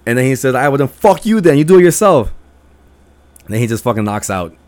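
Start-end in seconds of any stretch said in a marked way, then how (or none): 0.5-2.3 louder, higher retold retort; irritated comeback, imitated; fed-up snapping. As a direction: throw up your hands and give up on them. Friend snaps back in retold argument.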